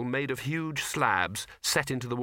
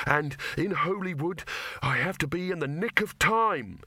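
shouted; 5 semitones higher than usual. A narrator's reading. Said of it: "he shouted".

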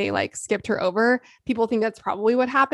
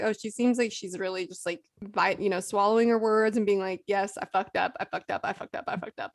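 mock Anna; 2 semitones lower, 5 dB quieter than usual. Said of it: "I was like".

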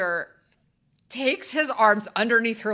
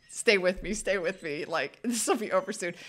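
low, soft mock reassurance; mock-soothing; 5 semitones lower, 8 dB quieter than usual. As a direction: gently coach a friend through it. Retells calming friend through exam.

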